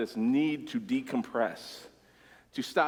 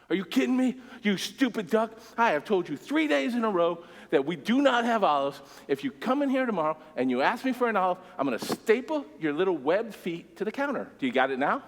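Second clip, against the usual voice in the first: furious rant; 6 semitones higher than usual. Retold or imitated. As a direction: blow up at the stupid duck, losing it completely. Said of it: "Dude loses his mind".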